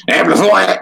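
high, exaggerated Australian cartoon hunter; thick Australian accent. Quoting the Dexter's Lab lion hunter, thick Australian accent. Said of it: "like, thick Australian accent".

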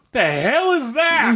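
as if a strange gadget just showed up on TV; incredulous. Retold or imitated. Retold reaction to a commercial.

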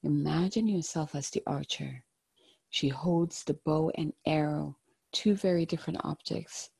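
gentle, hushed guided-meditation voice. Acted. Tarot card reading, meditative guidance.

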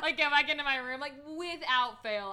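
loud, high laughing. Real, not acted. Telling the towel story, laughing loudly. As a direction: laugh your way through it.

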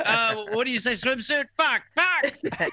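rising, flustered self-correcting; flustered correction. Retold or imitated. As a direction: catch yourself and curse. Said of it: "I was like".

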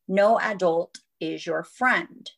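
slow, deliberate motherly rule, retold; firm parental warning. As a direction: lay down the rule slowly. Mother voices her warning to sons.

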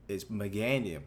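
Meganium said meh-GAN-ee-um; his pronunciation. Shown as a demonstration. Insisting on his pronunciation, Meganium said meh-GAN-ee-um. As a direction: Meganium with the middle syllable GAN. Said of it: "Like I just said it".

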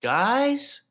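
high calling into an empty house; Kevin McAllister calling out. Retold or imitated. Friend imitating Kevin calling for his family, high and loud. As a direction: call out for family, high and echoing. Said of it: "like when Kevin McAllister wakes up".

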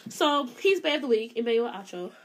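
talking between sips of tea; words around a sip of hot tea; sipping hot tea. Real, not acted. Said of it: "As she sips her tea".

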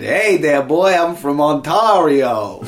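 laughing, lightly voiced mock Canadian; a jokey Canadian greeting, half laughing; mock Canadian accent. Joking about Canada's chart, in mock Canadian accent. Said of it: "In Canada, they said".

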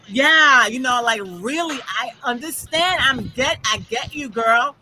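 put-on valley girl voice. Imitating herself as a valley girl chatting with white coworkers. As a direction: play up a valley girl agreeing with her friend. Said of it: "I'm trying to talk like a valley girl".

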